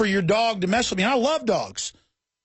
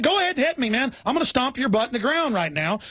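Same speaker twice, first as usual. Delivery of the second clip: retold angry shout; 6 semitones higher than usual. To the dog owner's husband, a high angry shout. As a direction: bark the threat up high in his face. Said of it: "I'll start screaming at 'em".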